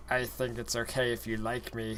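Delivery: soft. Acted. Death Eater quote, soft low.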